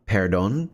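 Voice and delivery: "perdón" with an untrilled English R; non-accent pronunciation. Shown as a demonstration. Speaker showing a friend the word, non-accent "perdón". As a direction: say "perdón" without rolling the R. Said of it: "say it in the, uh, non-accent way".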